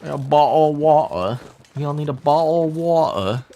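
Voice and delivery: put-on British accent; hammed-up British impression. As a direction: imitate a British speaker, dropping the t's. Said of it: "Or I could do British".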